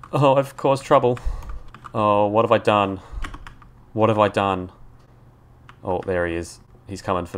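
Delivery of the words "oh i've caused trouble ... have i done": being chased. Real, not acted. Spotted and fleeing in game.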